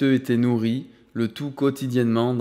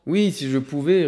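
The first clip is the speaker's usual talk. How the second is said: usual speaking voice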